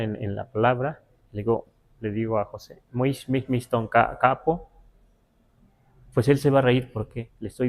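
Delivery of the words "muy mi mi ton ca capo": lilting teasing tune, capo rising; sing-song teasing. Retold or imitated. Teasing José about Luis, lilting sing-song. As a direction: tease him with a little melody. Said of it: "una cierta musicalidad".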